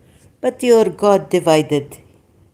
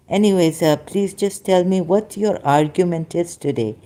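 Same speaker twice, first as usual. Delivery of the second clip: ordinary talk, nothing marked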